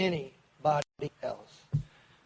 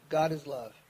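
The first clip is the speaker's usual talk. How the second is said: the mantra repeated softer and lower, fading off; 4 semitones lower, 5 dB quieter than usual. Retold or imitated. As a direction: let the second "God is love" drop away as if drifting to sleep. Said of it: "just lay there and go".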